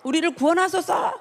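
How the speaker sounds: high-pitched mock shout of acclaim; imitated crowd cry. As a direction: call out like a cheering crowd, without full volume. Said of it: "막 소리를 외치면서".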